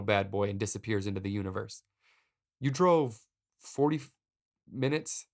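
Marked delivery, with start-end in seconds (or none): 2.6-5.3 higher-pitched, puzzled questioning; confused voice, pitch climbing toward the end. Retold or imitated. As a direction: ask it in baffled disbelief, halting at first. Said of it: "I ask in a confused voice".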